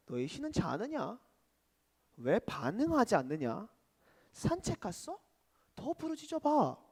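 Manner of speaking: soft mock questions, rising into a goad; sarcastic taunting. Elijah goading worshippers about their sleeping god, light sarcasm. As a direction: lightly needle them, keeping it quiet. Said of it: "비꼬면서".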